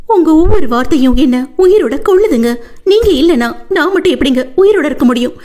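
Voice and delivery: high, tearful desperate begging; wife clinging to his legs, high tearful plea. Acted. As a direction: plead from the floor. Wife crawling begs husband.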